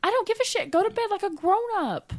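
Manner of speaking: very high, loud scolding; exasperated demand. Real, not acted. Bickering over bedtime, repeats demand louder.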